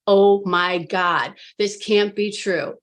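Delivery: slow, drawn-out inner disbelief; retold inner freak-out. Client recalling her silent panic in the session, retold freak-out. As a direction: let the dread out in slow, weighted words. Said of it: "I'm freaking out inside".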